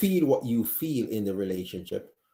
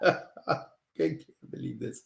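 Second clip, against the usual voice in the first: laughing; 3 semitones higher, 5 dB quieter than usual. Real, not acted. Laughing at own sick coughing.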